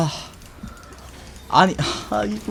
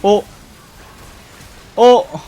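startled high "huh"; 9 semitones higher, 8 dB louder, much slower than usual. Real, not acted. Surprised at play.

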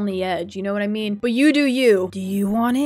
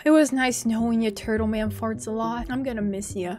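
mock farewell; 5 dB quieter than usual. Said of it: "I'm very nervous".

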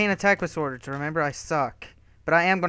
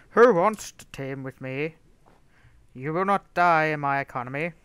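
imagined player voice. Retold or imitated. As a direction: imitate a pompous challenger, drawing words out. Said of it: "like, that's how he sounds".

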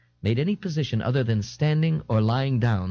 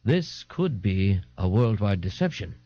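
thoughtful, serious; 2 semitones lower than usual. Acted. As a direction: muse gravely on a theory. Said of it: "in a thoughtful, serious voice".

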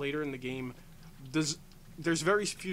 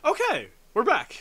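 high, loud, slower call; loud announcement; 9 semitones higher, 13 dB louder than usual. Real, not acted. Player telling listeners the break is over, loud announcement. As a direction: announce the return with a big raised voice. Announcing return after a pause.

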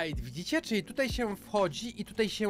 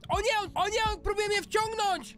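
hit hard crying out; 9 semitones higher than usual. Real, not acted. Hit by snot, nose pulls him.

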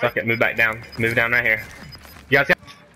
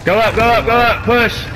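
urgent shouting; 8 semitones higher, 5 dB louder than usual. Real, not acted. Pushing teammates in fight.

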